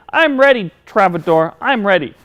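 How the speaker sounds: a hint of eager puppet voice; lightly voiced keen puppet. Puppet telling host he is set, mildly eager.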